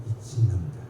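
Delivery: low, muttered swear under the breath; muttered curse. Retold or imitated. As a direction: let a curse slip out low and quiet. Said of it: "제 입에 이제 전문 용어가 튀어나오는 거예요". (나지막이 중얼거리는 욕설)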